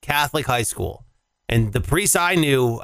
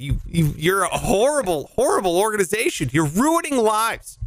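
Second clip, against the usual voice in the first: indignant rant; 5 semitones higher than usual. Pretend. Mock rant at the Catholic Church.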